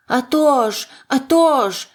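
high, loud, pleased agreement; gleeful exclamation. A narrator's reading. Little man liking his new nickname, exclaiming gleefully. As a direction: agree eagerly, exclaiming twice. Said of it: "вигукнув чоловічок".

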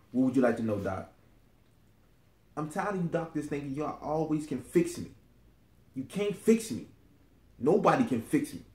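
frustrated, pitch jumping up in protest; defiant, worked-up patient; fed-up defiance. Acted. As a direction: push back at the doctor, exasperated. Fed-up patient snaps at doctor.

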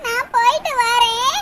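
slow, drawn-out tearful goodbye; milk the parting with a hammy whimper; overacted farewell. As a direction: melodramatic daughter leaving home, slow and weepy. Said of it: "ஓவரா action கட்டிக்கிட்டு இருக்கா".

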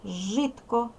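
Житко with a crisp voiceless T closing the first syllable. Shown as a demonstration. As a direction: keep the T in Житко unvoiced, like T. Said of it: "глухий звук Т".

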